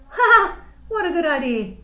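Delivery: loud high hammed-up laugh; laughing dingo. Dingo laughing at Platypus's mud idea, loud and high. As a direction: cackle with delight at the idea. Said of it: "Dingo laughed".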